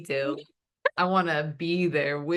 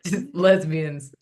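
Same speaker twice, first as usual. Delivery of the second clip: slow, drawn-out "lesbians" set apart for drama; dramatic pause; 5 dB louder, slower than usual. Pretend. Co-host announcing the episode topic, "lesbians" slow and dramatic. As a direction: stretch "lesbians" slowly and let it hang before a pause. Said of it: "Dramatic pause".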